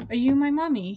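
lightly voiced lost boy; a hint of a child's voice; small child. A narrator's reading. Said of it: "he asked".

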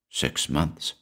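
soft stunned whisper. A narrator's reading. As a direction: breathe it out in disbelief. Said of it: "he whispered".

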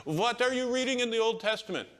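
light up like you've found a friend; elderly Jewish man delighted by the Bible reader, excited; excited old man. Retold or imitated. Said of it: "he was so excited".

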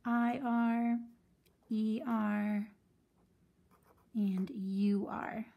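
whispered U-R. Shown as a demonstration. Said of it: "bossy R triplets".

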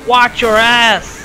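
slow drawn-out game announcer voice; slow mock announcer. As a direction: stretch it out like a game voice line. Slow put-on English quote.

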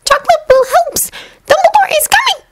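very high squeaky elf voice; Dobby the house-elf. Acted. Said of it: "the little elf told Severus".

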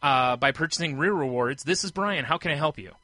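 fast scripted store greeting; scripted phone greeting. Retold or imitated. He mimics the greeting his employer required, fast scripted delivery. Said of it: "let me start again".

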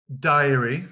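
diary with a bright rise; diary modelled. Shown as a demonstration. Teacher announces diary to students, rising. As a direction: present diary to the class. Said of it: "Là".

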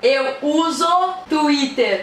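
very slow, over-articulated phrase; slow exaggerated mouthing. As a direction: stretch each word out. Mouthing phrase for lip reading.

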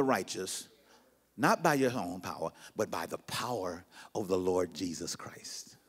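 slow, measured reading that fades low; weighty pulpit reading, dropping away at the close; scripture reading. Acted. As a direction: read it out solemnly, sinking to a near whisper. Reads scripture to congregation.

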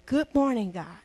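low sleepy murmur, just woken; barely awake, eye half open; groggy morning mumble. Shown as a demonstration. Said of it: "First thing".

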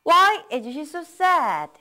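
slow, even drill pace; slow model reading. Shown as a demonstration. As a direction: say it slowly, leave room to repeat. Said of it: "첫 번째 문장이 뭐였죠?".

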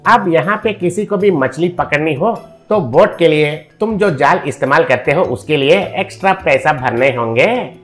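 greedy rich man laying down the law; threatening. Acted. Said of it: "कहकर धमकाया". (धमकाते हुए)

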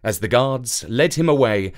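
usual speaking voice

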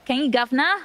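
lightly put-on British accent; a touch of hammed-up British; mock British accent. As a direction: tease in a playful British accent. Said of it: "I can do a British accent".

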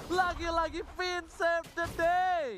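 slow excited caster call; drawn-out hype call. Real, not acted. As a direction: stretch it out with hype.

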